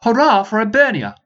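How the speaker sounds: loud, high battle cry; rallying shout. Acted. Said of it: "he shouted".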